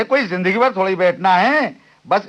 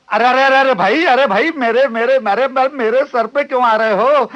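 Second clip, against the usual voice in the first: loud protest; 4 semitones higher, 4 dB louder than usual. Acted. Being crushed on crowded bench.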